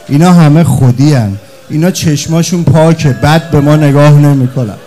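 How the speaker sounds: mourning preacher at full pitch, near a shout; preaching at full force. Acted. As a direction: throw every word out to the crowd.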